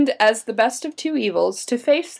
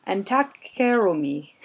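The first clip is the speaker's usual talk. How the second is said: put-on a half-hearted Scottish accent, louder on Lord; attempted Scottish accent; 6 dB louder than usual. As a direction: try a Scottish brogue, rolling and purring. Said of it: "say that again with a Scottish accent".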